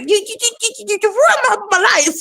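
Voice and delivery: high stuttering outburst. Retold or imitated. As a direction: stutter the words out. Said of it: "I was stuttering too".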